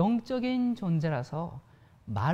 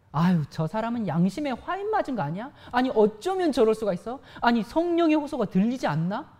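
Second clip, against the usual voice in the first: mock indignant complaint; 4 semitones higher, 5 dB louder than usual. Imitating resentful complainer.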